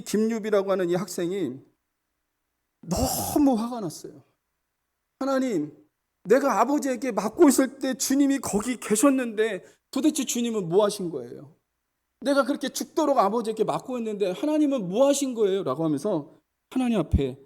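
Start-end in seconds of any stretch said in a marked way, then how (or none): 5.2-15.6 mildly indignant, higher-pitched complaint; acted-out aggrieved questioning; confronting God. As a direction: demand an answer from God, retold. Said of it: "막 따졌어요".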